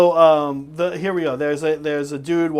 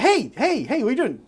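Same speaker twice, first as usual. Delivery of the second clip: high-pitched calls for attention; acted frog protest; 9 semitones higher than usual. Frog calling to the engineer from his pocket, high protest. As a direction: call out in a high, indignant frog's voice.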